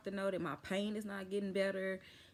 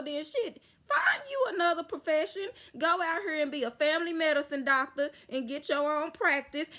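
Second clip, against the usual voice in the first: much higher and far louder, near tears with rage; furious shout; 8 semitones higher, 8 dB louder than usual. Real, not acted. Patient venting at the on-call doctor, furious crying shout. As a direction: blow up at the doctor as if he were here.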